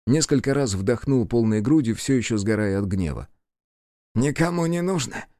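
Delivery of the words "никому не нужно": demon asking again. A narrator's reading. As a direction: repeat it in disbelief. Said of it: "переспросил он".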